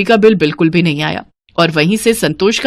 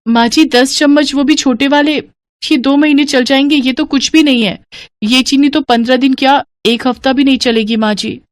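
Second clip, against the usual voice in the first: put-on higher-pitched plaintive young wife; higher voice of dismayed daughter-in-law; protesting daughter-in-law; 5 semitones higher than usual. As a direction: object respectfully to your mother-in-law. Daughter-in-law protests sugar ration.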